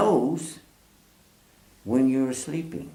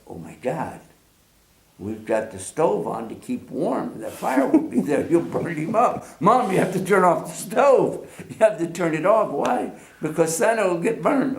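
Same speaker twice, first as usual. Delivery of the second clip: put-on higher, rising child panic; mock panic; 5 semitones higher than usual. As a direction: plead like a scared kid that Santa will burn. Panicked child begs mother.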